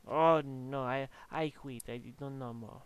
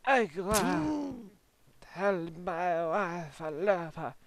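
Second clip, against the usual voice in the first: mock dying hero; 2 semitones higher, 3 dB louder, slower than usual.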